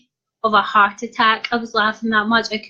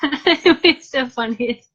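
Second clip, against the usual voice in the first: laughing; 3 semitones higher, slower than usual. Real, not acted. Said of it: "I literally could not stop laughing".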